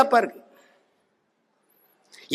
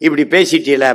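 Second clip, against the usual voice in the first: lower, quick mocking whine; mock whiny complainer; 5 semitones lower than usual. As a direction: imitate a whining critic with lowered pitch. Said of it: "அவர்கிட்ட கேள்வி கேட்டீன்னு வச்சுக்க".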